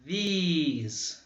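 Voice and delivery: These with a clear ee vowel; teacher isolating the vowel; vowel demo. Shown as a demonstration. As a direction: model These, stretching the ee. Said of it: "é semelhante ao I".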